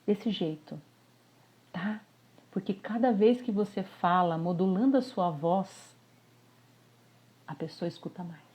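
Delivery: soft modulated demo voice. Shown as a demonstration. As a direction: drop the voice to draw them in. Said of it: "abaixa um pouquinho o tom de voz".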